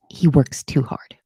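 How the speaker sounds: slow, hushed fond whisper; slow confiding whisper; whispered aside. Real, not acted. Aside about a chat viewer.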